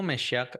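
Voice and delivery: "Meshiach" as Hebrew speakers say it, sh for s; Hebrew-style pronunciation. Shown as a demonstration. Teacher showing the class today's Hebrew form, "Meshiach" pronounced with sh. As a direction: say "Meshiach" with a sh in the middle. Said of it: "ahora lo pronuncian así".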